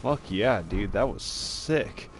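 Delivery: frat bro. Real, not acted. Hyped after a great win.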